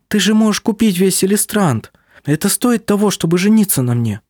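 put-on young woman pressing her case. A narrator's reading. Female character voice, pleading.

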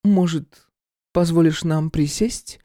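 sweetly fish for an invitation; voiced woman Irka. Irka asks to sit.

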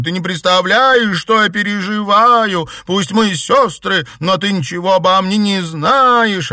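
high, loud, anguished outcry; tearful shout. A narrator's reading. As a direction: yell it through tears. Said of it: "крикнула она".

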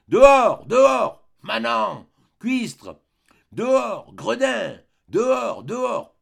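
very high, very loud raging shouts; furious shouting. A narrator's reading. Uncle screaming at the pastor and concierge, raging shouts. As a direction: bellow them out of the house in fury. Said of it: "des cris poussés par mon oncle, plus véhéments et plus terribles".

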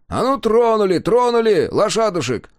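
loud, high bark to the horses; barked command. A narrator's reading. Driver barks at the convoy to move, loud. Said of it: "гаркнул".

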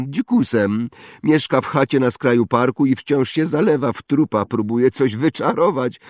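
high, loud bragging schoolboy; spoiled boasting boy. Acted. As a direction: show off like a rich brat. Draco gossiping scornfully. (chłopiec przechwala się, wysoko i głośno)

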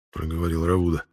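ordinary delivery, nothing marked

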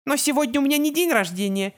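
high, playful protest; joking deflection. A narrator's reading. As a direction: laugh it off lightly. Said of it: "попыталась отшутиться Джульетта". (шутливо отмахиваясь)

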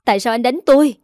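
a wife shouting at her husband who hit her; loud shout. A narrator's reading. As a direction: shout it back in protest. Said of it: "quát lớn".

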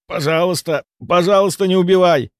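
high desperate pleading; begging on his knees. A narrator's reading. Malkov on his knees begging for his life, high desperate plea. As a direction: beg for mercy on your knees. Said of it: "рухнул на колени".

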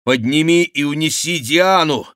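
high, loud urgent order; urgent command. Acted. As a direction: call the order out over the fight. Бюсси командует в бою. (громкий настойчивый приказ)

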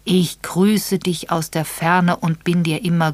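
slow, stunned realization; realizing aloud. Acted. Edward rereads the letter in sudden realization, slow. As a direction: read it as the penny drops. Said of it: "stieß einen unterdrückten Schrei aus".

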